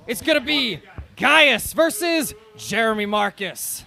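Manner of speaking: slow, spaced-out ring announcer call; drawn-out fight billing; matchup announcement. Real, not acted. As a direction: announce each fighter with weight, pausing between names.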